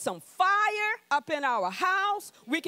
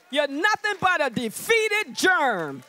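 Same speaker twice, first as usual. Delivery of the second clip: slow, louder scorn for the germ; scornful put-down; 4 dB louder, slower than usual. Retold or imitated. Preacher tells covid it is defeated, with scorn. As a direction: belittle the enemy slowly. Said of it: "That's how you need to talk".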